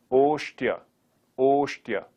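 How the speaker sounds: oshtya with sh, stressed on osh; Sanskrit oshtya. Shown as a demonstration. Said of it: "in Sanskrit".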